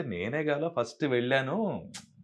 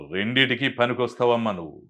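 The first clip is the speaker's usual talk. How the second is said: lightly imitated loud studio visitor; a louder, assured verdict in an imitated voice; RCM impression; 5 dB louder than usual. Visitor answers the hopeful dubbing artist, lightly done RCM impression. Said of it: "RCM గారు స్టూడియోకి వచ్చి".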